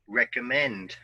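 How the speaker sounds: "recommend" with the stress on MEND: rec-om-MEND; "recommend" modelled for repeating, MEND stressed; model word stress. Shown as a demonstration. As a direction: say "recommend" clearly and land on the last syllable MEND. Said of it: "listen and repeat after me".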